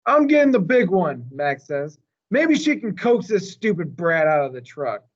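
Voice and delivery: high, loud annoyed call; frustrated shout. Acted. Mac shouts to his men about the stubborn elephant, frustrated yell. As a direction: shout over the noise.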